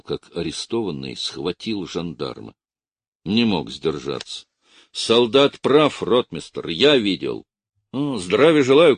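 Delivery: usual speaking voice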